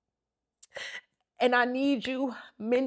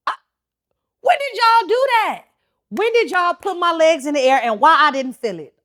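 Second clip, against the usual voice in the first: reliving shock; 8 semitones higher, 11 dB louder than usual. Retold or imitated. Shocked seeing her legs raised.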